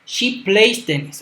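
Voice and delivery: slow, careful classroom reading of the example; deliberate teacher demo pace; slow model sentence. Shown as a demonstration. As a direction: read it out slowly so students can follow. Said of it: "Ven la respuesta correcta".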